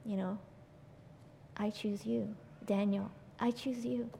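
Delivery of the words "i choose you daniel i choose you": softly, gently spoken assurance; tender divine address. Acted. Voicing God addressing a listener tenderly.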